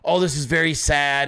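the ranter mocks a sad reaction; mock sympathy. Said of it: "some part of me that was like".

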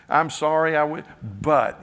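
mock defensive apology. Mocking people's ruined apologies.

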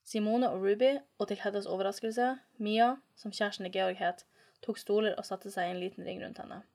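measured, even read-aloud voice; story narration. A narrator's reading.

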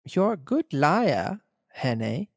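lightly voiced villain calling his bluff. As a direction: drawl it coolly. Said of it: "he said".

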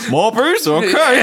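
high, loud, laughing prompt; cheerful automated system; phone menu voice. Pretend.

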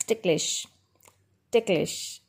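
"ticklish" as TIK-lish, two syllables; model pronunciation. Shown as a demonstration. Teacher modelling for learners, ticklish as TIK-lish. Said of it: "This is pronounced as".

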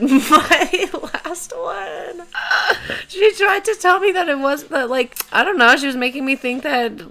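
very high, squeaky, laughing whine; mock whining. Podcaster confessing she ghosted her therapist, high mock whine.

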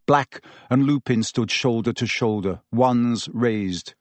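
ordinary delivery

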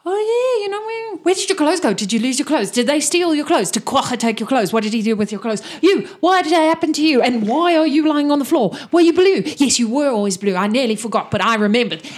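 high, loud rapid questions; gushing nosy character; excited babble. Acted. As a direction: pepper them with eager questions.

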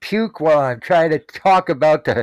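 pinched nose, blocked nasal voice; clothespin on nose. Real, not acted. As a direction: talk with your nose pinched shut. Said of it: "What you got that clothespin on your nose for?".

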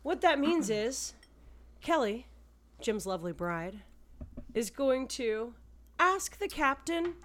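a touch of a loud emcee; show host voice. Acted. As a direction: introduce the segment like a host. Hosting segment intro.

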